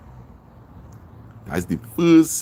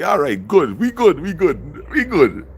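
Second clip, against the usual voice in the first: high, drawn-out mock "we good"; mock reassuring; 7 semitones higher, 3 dB louder, slower than usual. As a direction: sing it out high and slow like a cool reassurance.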